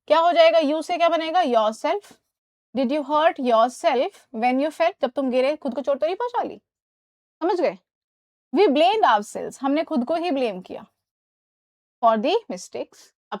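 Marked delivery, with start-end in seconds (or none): 2.8-5.0 very slow, each word stretched; slow model sentence. Shown as a demonstration. Teacher dictates the correct sentence slowly to students. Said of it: "model sentence read slowly". 8.5-9.6 very slow, each word stretched; slow model sentence. Shown as a demonstration. Teacher dictates the correct sentence slowly to students. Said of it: "model sentence".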